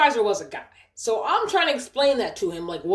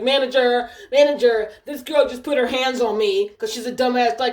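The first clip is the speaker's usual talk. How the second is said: calling out; 4 dB louder than usual. Retold or imitated. Harasser calling for the manager.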